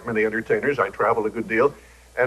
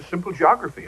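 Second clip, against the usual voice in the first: "simple" pitched up for emphasis; stress on "simple"; 5 semitones higher than usual. Real, not acted. Author explaining what students don't know, stressing "simple" with raised pitch. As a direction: lean on the word "simple". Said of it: "I emphasize the word simple".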